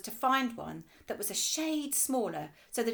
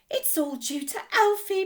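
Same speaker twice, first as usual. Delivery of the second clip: slightly breathless; 10 semitones higher, 8 dB louder than usual. Acted. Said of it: "slightly breathless".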